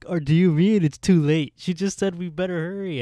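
loud, high-pitched outraged outburst; retold angry shout; acted-out pissed off. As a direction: yell it like you're furious at being misled. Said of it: "Johnny gets so fucking pissed".

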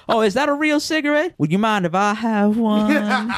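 squeaky excited imitation with a laugh; mock eager coworker. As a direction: play him wide-eyed and grateful. Coworker asking boss for cigarette.

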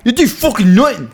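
high-pitched mock Irish outburst; mock Irish accent.

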